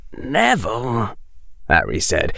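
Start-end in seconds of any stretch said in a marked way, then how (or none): 0.1-1.1 soft, slow, measured; carefully controlled. A narrator's reading. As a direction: hold the voice steady and calm. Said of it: "keeping his voice under very careful control".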